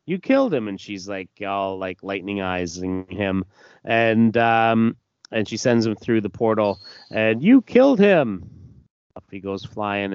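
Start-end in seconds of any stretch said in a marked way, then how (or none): 0.1-0.7 much higher shout of blame; shrill-pitched girl's outcry; accusing yell. Acted. Jenny accusing the villain. 7.4-8.5 much higher and louder accusing yell; enraged girl's cry; furious shout. Acted. Jenny blasting him away.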